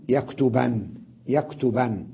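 yaktuban, ending held on the n; with emphatic nun. Shown as a demonstration. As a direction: say يكتبن as yaktuban, n sounded. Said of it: "هذه يكتبن بالنون".

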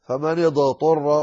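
فمن اضطر with the dad popped like a qalqala; wrong, dad bounced. Shown as a demonstration. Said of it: "هذا خطأ".

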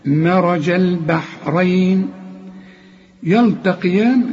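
"مرج البحرين يلتقيان" drawn out slowly; slow recitation. Shown as a demonstration. Teacher models the correct verse reading slowly. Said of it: "هنقول".

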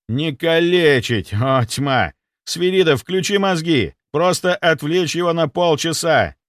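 loud, slowed, insistent; exasperated correction. Acted. Doctor correcting his guard, exasperated. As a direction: hammer the correction home.

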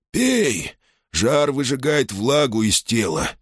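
sharp high urging; urgent command. Acted. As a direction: insist he drink now. Old man urges him to drink.

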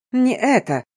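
barked. Acted. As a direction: snap it out like a command. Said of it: "рявкнула я".

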